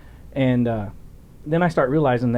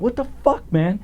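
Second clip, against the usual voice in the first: high-pitched incredulous outburst, re-enacted; retold exasperated confrontation; 9 semitones higher than usual. Officer jumping out of the car at his friend, retold exasperation. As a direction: confront him in mock exasperation.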